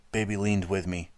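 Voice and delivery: plain reading voice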